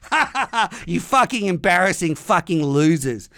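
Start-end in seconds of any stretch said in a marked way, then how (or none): 0.1-0.8 mocking laugh. Gloating at England.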